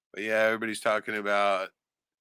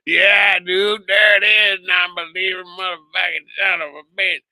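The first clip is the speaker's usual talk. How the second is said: hammed-up believer's whoop, louder and higher; shouting back at the clip in a mock frenzy; mock excited shout; 9 semitones higher, 10 dB louder than usual. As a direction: yell like the thrilled Nibiru guy, much louder and higher. Mocking the excited clip guy.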